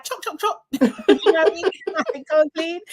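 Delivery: lightly voiced bossy monarch; bossy queen imitation. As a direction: playfully mimic a queen ordering servants. Mimicking bossy queen on rounds.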